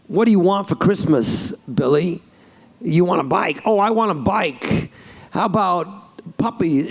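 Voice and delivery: lightly voiced odd-cadenced Santa; a hint of the actor as Santa; Christopher Walken. Shown as a demonstration. Santa asking a little boy about Christmas, light impression. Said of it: "do you do a Christopher Walken?".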